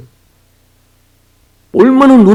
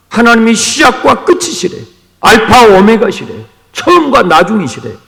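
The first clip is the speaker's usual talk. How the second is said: louder, higher fervent build; rising preaching climax; 6 semitones higher, 5 dB louder than usual. Real, not acted. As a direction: let each line climb with conviction.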